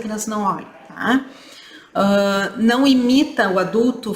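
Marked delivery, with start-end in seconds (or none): none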